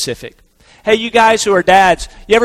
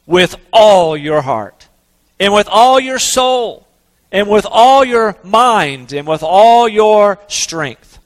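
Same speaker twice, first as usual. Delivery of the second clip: solemn scripture reading; slower than usual. Acted. Reads scripture aloud.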